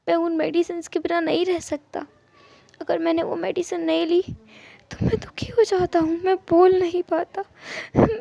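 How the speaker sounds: a touch of crying, rising to a sob; tearful. Acted. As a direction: cry out helplessly about the medicines. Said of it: "ईबो ने रोते हुए कहा".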